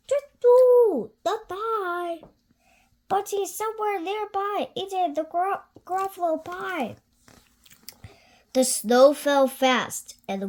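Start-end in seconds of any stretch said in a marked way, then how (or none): 0.1-6.9 high hooting owl. Acted. Owl answering the child, high and hooting. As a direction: hoot it like a sly owl.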